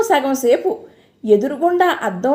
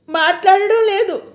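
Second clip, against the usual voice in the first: weeping; 6 semitones higher than usual. A narrator's reading. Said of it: "ఏడుస్తూనే".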